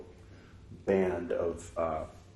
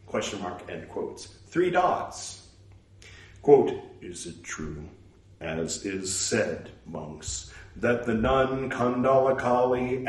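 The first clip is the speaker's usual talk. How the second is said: measured reading aloud, naming every punctuation mark; steady recital voice; scripture recital. Acted. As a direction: recite it like a formal text.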